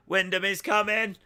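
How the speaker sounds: excited shout. Real, not acted. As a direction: hype it up as the lights go out. Lights out, hype rising.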